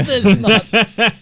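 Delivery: laughing through the words; giggling, high and loud. Real, not acted. Laughing at own mistake.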